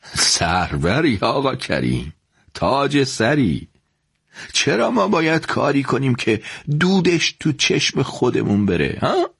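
put-on slow, fond coaxing from an old merchant; affectionate. Rival shopkeeper fondly persuading the young man to make peace, slow. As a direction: win the young man over kindly. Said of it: "با محبت شونم و فشار داد و گفت".

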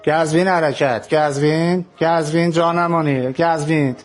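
put-on slow, drawn bus call in a light Qazvini accent. Bus boy calls travellers for Qazvin in Qazvini accent. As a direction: lightly mimic a Qazvin conductor hawking seats.

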